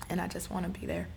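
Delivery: whispered, barely voiced; real, tender whisper. Real, not acted. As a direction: drop to a breathy whisper of longing. Emotional wish to help.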